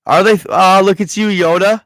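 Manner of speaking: real excited surprise at a viewer's gun knowledge. Real, not acted. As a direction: pleasantly caught off guard, praising a viewer. Impressed by chat's gun knowledge.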